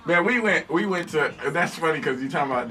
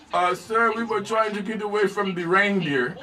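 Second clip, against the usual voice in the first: higher-pitched imitated Jamaican accent; 5 semitones higher, slower than usual. Jamaican passenger explains to the cop, higher Jamaican accent. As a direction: plead earnestly in a Jamaican lilt. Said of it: "the Jamaican guy goes".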